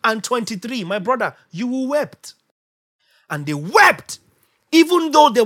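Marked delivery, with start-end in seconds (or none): 0.0-0.8 mock chant of commandment after commandment; rattling off laws. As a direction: pile up the thou shalt nots, rising. Reciting the endless commandments.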